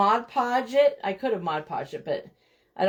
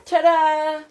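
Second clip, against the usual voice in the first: ta-da reveal; 7 semitones higher, 6 dB louder than usual. Real, not acted. Showing off the doilies.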